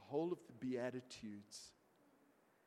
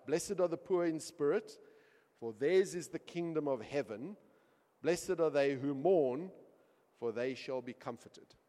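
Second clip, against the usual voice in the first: mocking reading; 3 semitones higher, 10 dB louder than usual. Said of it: "he had to read out of Matthew".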